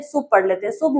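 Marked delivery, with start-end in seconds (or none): 0.0-0.3 शुभ pronounced "soob", u as "oo"; शुभ as a learner's mistaken "soob"; learners' misreading. Shown as a demonstration. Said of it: "तो आप क्या पढ़ लेते हैं?". 0.7-1.0 शुभ said "soob", with an "oo" vowel; शुभ as the mistaken "soob"; misreading to avoid. Shown as a demonstration. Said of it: "शुभ नहीं पढ़ेंगे".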